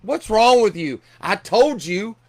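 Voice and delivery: Jesus imagined scolding Mary, mock exasperated; mock exasperation. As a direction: play an exasperated teacher, half in jest. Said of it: "Jesus would be mad at her and be like".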